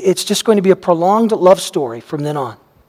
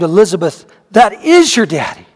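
mother calls out her joy on seeing him; excited exclaim; 3 dB louder than usual. Retold or imitated. Mother exclaiming as her husband comes home, mildly excited. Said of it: "my mother exclaimed".

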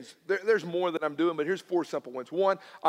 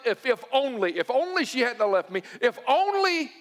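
high, mounting "if only" lament; mock regretful pleading; 5 semitones higher than usual. Preacher mimics people holding on to regret, mock pleading. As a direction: imitate someone clinging to regret, climbing higher.

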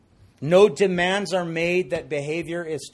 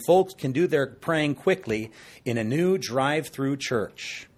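salesy ad read; infomercial voice; 4 dB louder than usual. Acted. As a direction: pitch it like a TV ad. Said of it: "I sound like an infomercial".

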